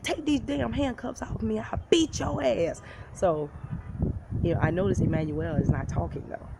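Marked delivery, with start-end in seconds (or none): 0.0-2.8 high, slowed mock threat; retold screaming. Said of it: "I'm just yelling and screaming".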